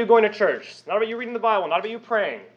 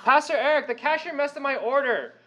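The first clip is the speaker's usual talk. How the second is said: put-on much higher childish complaining; mock whiny yell; 7 semitones higher than usual. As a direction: whine at the cashier like a brat. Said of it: "you yell to Pastor Eric".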